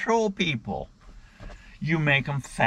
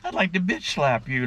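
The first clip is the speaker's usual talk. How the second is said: imitating a fed-up cardiologist, pitched up; mock exasperation, voice lifting on each jeez; exasperated doctor; 5 semitones higher than usual. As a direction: act out a doctor barely holding back. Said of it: "see the look on his face".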